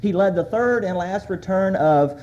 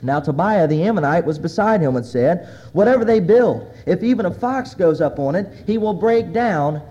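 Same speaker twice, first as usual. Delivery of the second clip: loud, measured reading, slowing at the ends; scripture reading; 3 dB louder than usual. Acted. Preacher reads Sanballat and Tobiah's taunts aloud, loud reading. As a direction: proclaim the taunts to the congregation.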